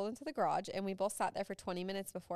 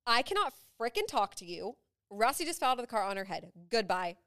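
retold yell; 2 semitones higher, 5 dB louder than usual. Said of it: "I literally yelled at Justin".

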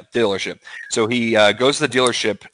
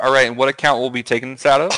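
bank teller voice; faster than usual. Retold or imitated. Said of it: "when they're like".

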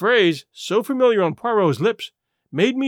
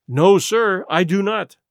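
firm, louder denial; emphatic; 2 semitones higher, 5 dB louder, slower than usual. A narrator's reading. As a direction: say it with full conviction. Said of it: "declared the doctor emphatically".

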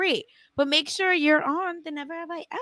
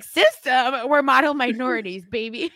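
laughing mom impression; 4 dB louder than usual. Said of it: "My mom is like".

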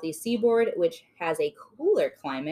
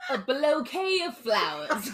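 higher, laughing through the words; 6 semitones higher than usual. Real, not acted. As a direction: repeat it while cracking up at yourself. Laughing, repeating the misheard word.

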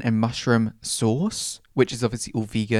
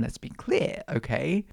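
whispered aside; 7 dB quieter, slower than usual. Real, not acted. Aside about still living home.

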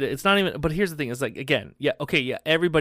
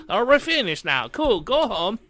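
bored alien; 8 semitones higher, 6 dB louder than usual. Pretend. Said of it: "They'd be like".

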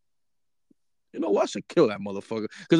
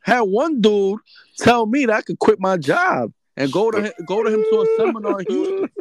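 worked-up rant; 10 semitones higher, 6 dB louder than usual. Real, not acted. Excited rant.

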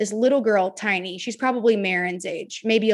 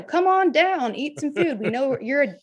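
welcoming fan voice; 5 semitones higher than usual. Retold or imitated. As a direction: play a chirpy overfriendly fan inviting you in. Voicing welcoming A&M fans.

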